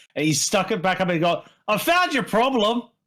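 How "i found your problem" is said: grunting, gruff dwarf voice, pitched up. Voicing a dwarf popping his head out of a hole: dwarvish grunt. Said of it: "a muffled dwarvish grunt from the hole".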